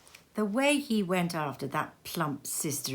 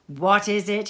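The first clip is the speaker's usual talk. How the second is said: louder, eager question from Fred; Fred crying out to his sister; 2 semitones higher, 5 dB louder than usual. Acted. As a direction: ask it leaning in, delighted. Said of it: "he cried".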